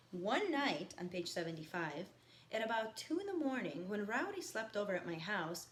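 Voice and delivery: reading a novel aloud to the class; lightly paced read-aloud, each line set down; reading a novel to students; story narration. A narrator's reading. Teacher reads novel aloud to class.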